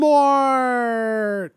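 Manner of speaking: slow, loud, drawn-out announcement; hammed-up villain reveal; dramatic villain entrance. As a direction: boom the name like a horror trailer.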